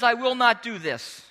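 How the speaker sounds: mildly defiant refusal; bad attitude. Kid upsetting the family at breakfast, bad attitude. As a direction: push back like a defiant kid. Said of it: "he has a bad attitude".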